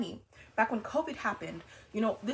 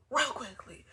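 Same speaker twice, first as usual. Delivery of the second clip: whisper; 2 semitones higher, slower than usual. Real, not acted. Repeated phrase whispered.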